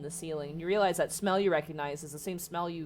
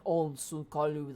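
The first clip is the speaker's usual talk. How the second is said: slow, lightly guttural giant speech; distant giants calling in a guttural language; deep guttural giant. Acted. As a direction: mumble it in a guttural giant tongue. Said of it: "kind of this deep guttural language".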